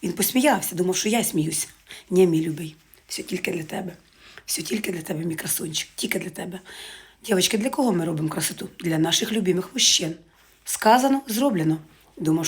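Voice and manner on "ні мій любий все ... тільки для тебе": tender to beloved. Retold or imitated. Tender words addressed to her beloved.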